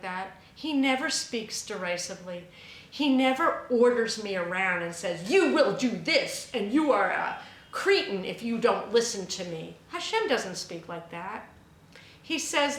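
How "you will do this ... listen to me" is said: louder, domineering order with a different timbre; imitating a domineering master; bossy commanding voice. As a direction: bark it like a tyrant giving orders.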